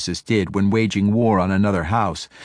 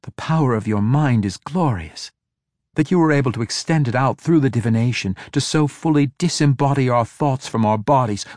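rising eager praise, building higher; 3 semitones higher than usual. Acted. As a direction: praise her with growing delight. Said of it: "clapped them excitedly".

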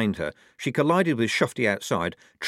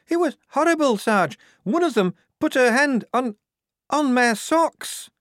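very high, louder distressed squeal; horrified wail; 5 dB louder than usual. A narrator's reading. Shufti telling the sergeant of the horror, high wail. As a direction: wail it out, dragging the last words. Shocked Shufti tells what happened.

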